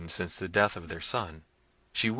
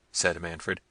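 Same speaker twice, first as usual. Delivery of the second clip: plain reading voice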